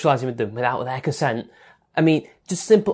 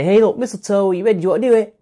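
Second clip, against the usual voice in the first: higher and louder, hammed-up eager asking for a kiss; mock polite asker; 6 semitones higher, 5 dB louder, faster than usual. Mocking a man asking permission under the mistletoe, hammed-up eager voice. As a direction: ham up a guy nervously checking for consent.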